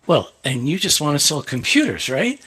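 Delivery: measured comeback ending in a rising "right?"; understated retort, lifting up on the final tag; retold cool retort. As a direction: toss the accusation back calmly. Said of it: "I said".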